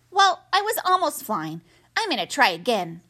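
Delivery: put-on a small child asking; young gosling voice. Gosling insists.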